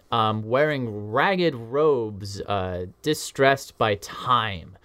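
very slow, weighty reveal; dramatic narration. A narrator's reading. Game master revealing the lost professor, slowly. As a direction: draw out each image of the reveal.

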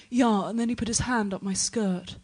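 lightly posh middle-class phone voice; a touch of middle-class English on the phone. Retold or imitated. Woman chatting on her mobile in Edinburgh, middle-class. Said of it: "says the most middle-class thing I've ever heard".

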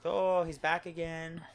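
put-on high, drawn-out New Zealand accent; Korg. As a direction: play the big rock dude as a slow New Zealander. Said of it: "Korg from Thor, the big rock dude".

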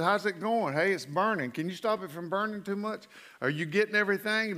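light, chatty, slightly high voice, speeding up near the end; woozy patient babble. Retold or imitated. Groggy patient rambling to his eye surgeon, fast and a little high. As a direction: babble on like someone half under anesthesia.

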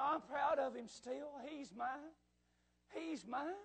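softly spoken proud claim; gentle reassurance. Acted. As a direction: quietly vouch for him. God reassures the fallen preacher.

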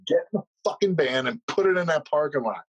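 mildly angry imitated cop; a touch of mock fury in the order; retold angry order. Mad cop ordering a drunk man, mildly acted angry command. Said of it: "he was so mad".

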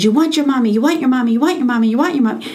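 put-on mild baby-talk soothing to a screaming two-year-old. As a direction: repeat it gently to a crying toddler. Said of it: "he spoke a little bit of baby talk".

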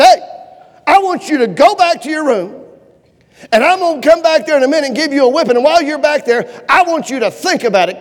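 firm, mock-threatening parental order; stern mother imitation. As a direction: imitate a mom laying down the law. Mother ordering child before a whipping.

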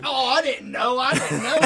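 hammed-up innocent driver; mock innocent excuse. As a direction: play dumb to the cop. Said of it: "I was gonna say".

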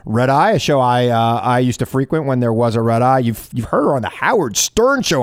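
lively on-air guest introduction; host welcoming a comedian on air; radio host intro. Acted.

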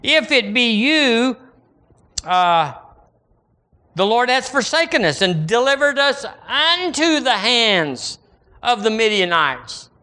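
high, sweet, falsely innocent whining; mock innocent and sweet. Preacher mocking a sweetly phrased complaint, high and innocent. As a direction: sound sweet while you accuse the Lord. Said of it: "innocently and sweetly".

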